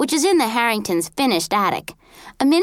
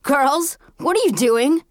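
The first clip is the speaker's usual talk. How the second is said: voice from behind; 4 semitones higher than usual. A narrator's reading. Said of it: "a voice behind us went".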